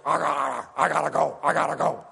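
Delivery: imitating a boss's hurried repeated line; lightly voiced busy man in a rush; Mister Little imitation. Helicopter owner telling his young helper he must go, lightly imitated. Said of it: "he would talk like this".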